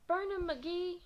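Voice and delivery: high, loud cheer; crowd yell. Acted. A kid cheers for McGee, yelling. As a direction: yell Burn 'em, McGee with BURN hit hard and high.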